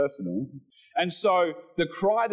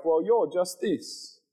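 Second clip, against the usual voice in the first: mocking voice; 5 semitones higher than usual. Preacher imitating the world mocking believers. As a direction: mimic the scoffers lightly. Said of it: "they say things like".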